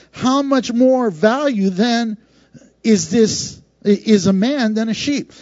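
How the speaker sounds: slow, measured reading of the verse; scripture reading. Shown as a demonstration. Pastor reading Jesus' words from Matthew to the congregation, slow and measured. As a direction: read the verse deliberately, like scripture. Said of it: "And he says this".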